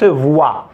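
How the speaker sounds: "voix" sounded as vwa; pronounced "wa". Shown as a demonstration. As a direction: teach "voix" as one vwa glide. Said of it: "Mais on la prononce". (« voix » prononcé voua)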